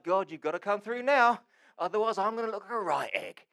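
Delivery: loud, high, urgent plea to God; nervy plea. Acted. Man of faith praying under public pressure, nervy plea. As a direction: plead loudly with nerves showing. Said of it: "that's gotta be quite nerve-wracking".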